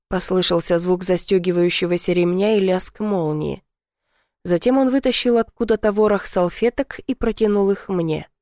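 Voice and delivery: plain reading voice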